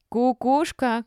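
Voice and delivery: high, loud jeer; accusing shout. A narrator's reading. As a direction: call it out as an insult. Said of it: "крикнула какая-то из старушек".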